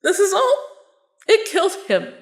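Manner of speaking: teary, half-laughing rant; a tearful laugh while pouring it all out; laughing through tears. Acted. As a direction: cry and laugh at once, overwhelmed. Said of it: "I'm crying".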